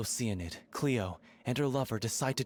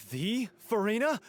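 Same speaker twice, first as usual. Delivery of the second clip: high, loud and drawn-out slow; can't believe it's really her; starstruck disbelief; 10 semitones higher, 4 dB louder than usual. Real, not acted. Fan realizing her idol is here, starstruck and disbelieving. Fan meets famous consultant.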